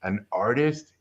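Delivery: low, soft solemn verdict; Yoda. Retold or imitated. Reviewer dismissing a student, lightly imitated low, soft sage. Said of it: "like Yoda".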